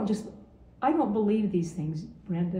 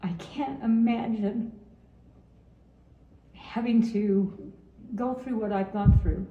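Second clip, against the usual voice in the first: getting emotional. Real, not acted. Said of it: "I'm gonna get emotional again".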